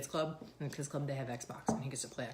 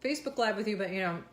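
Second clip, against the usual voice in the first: lightly voiced Canadians; 5 semitones higher, 4 dB louder than usual. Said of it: "they're like".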